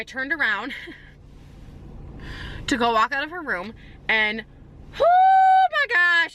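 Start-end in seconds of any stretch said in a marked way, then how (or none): 5.0-6.3 high, loud, slow shocked "oh my gosh"; real spooked gasp. Real, not acted. Telling viewers the scary moment, high and slow. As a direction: let the fright escape, drawn out. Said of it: "I have chills".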